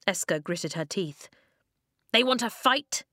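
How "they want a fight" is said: higher-pitched, defiant question; scornful fighting retort; spat. A narrator's reading. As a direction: throw the challenge back, pitched up. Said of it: "Flint spat".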